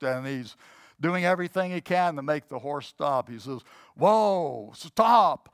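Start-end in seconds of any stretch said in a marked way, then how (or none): 4.0-5.5 high, loud frantic calls; panicked shouting. Retold or imitated. Terrified rider begs the horse to stop, shouting.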